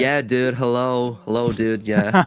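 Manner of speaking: Californian-style American dude accent. Shown as a demonstration. Showing friends his American accent, Californian dude accent. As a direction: put on a generalized American accent. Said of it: "it's a very generalized American accent".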